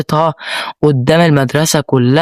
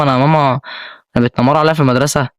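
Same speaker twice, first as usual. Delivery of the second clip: lightly voiced whiny small child, rushed at the end; mock little kid; faster than usual. Teen mocks himself telling mom like a little kid. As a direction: play it like a little kid tattling, half mocking yourself. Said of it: "هتعمل فيها عيل صغير بقى".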